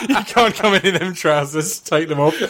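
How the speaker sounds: laughing doorman refusal, building to a loud high call; mock doorman. Doorman to man in short trousers, mock officious. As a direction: play the bouncer, calling out for backup.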